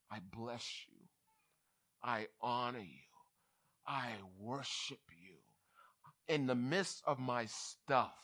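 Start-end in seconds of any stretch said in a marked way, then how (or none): 0.1-5.4 low, soft, reverent praise; quiet worship. Acted. Believer praising God amid troubles, low hushed worship. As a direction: pray it softly, with pauses between phrases.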